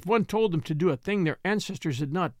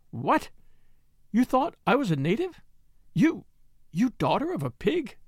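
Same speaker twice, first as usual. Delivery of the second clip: furious; 6 semitones higher than usual. Acted. Mary furiously insulting Martha, angry rising outburst. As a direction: spit it out at the maid in fury. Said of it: "Mary sat up in bed, furious".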